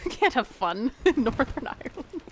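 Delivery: imitating an aunt laughing through her words; retold laughing. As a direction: break up laughing while quoting. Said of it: "she started laughing".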